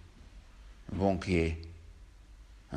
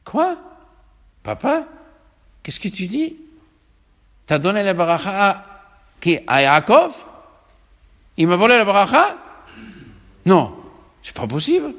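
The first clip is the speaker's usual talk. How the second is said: dismayed outcry; 9 semitones higher, 11 dB louder than usual. Acted. Esau learns blessing was stolen.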